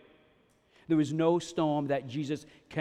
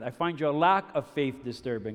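slightly deep movie-villain line; Darth Vader; 4 semitones lower than usual. Retold or imitated. Pastor quoting a film villain to the congregation, lightly imitated. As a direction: lightly lower the voice like a dark lord. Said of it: "Darth Vader".

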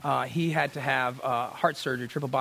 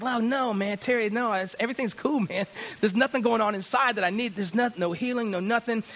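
higher-pitched mock protest; pushing back; 6 semitones higher than usual. Son resisting his counselor's pressing, higher-pitched protest. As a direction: brush it off insistently, pitched up. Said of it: "I kept pushing back".

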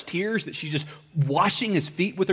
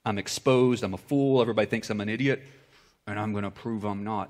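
proud ashamed inner voice; 5 semitones lower than usual. Pretend. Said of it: "when pride gets mingled with shame".

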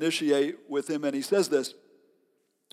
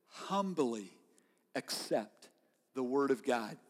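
hushed emphasis; 4 semitones lower, 9 dB quieter, slower than usual. Acted. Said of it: "sermon key line".

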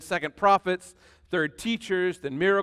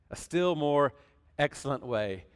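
quiet echo; 5 semitones lower, 5 dB quieter than usual. Shown as a demonstration. Echoing the verse for the church, low and soft. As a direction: still more excellent way, repeated low and soft. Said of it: "repeating the phrase".

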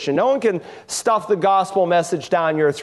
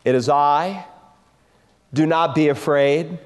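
tender reassurance; 6 semitones lower than usual. Acted. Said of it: "the tenderness".

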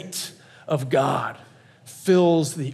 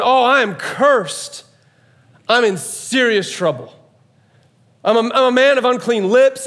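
high, loud cry of dread; anguished prophet; 6 semitones higher, 4 dB louder, slower than usual. Acted. Cursed man who has seen the King, anguished cry. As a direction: cry out in despair, high and mounting in force. Prophet despairing before God Almighty.

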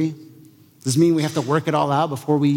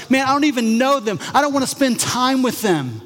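mock sudden contempt; 7 semitones higher than usual. Imitating sudden dislike.

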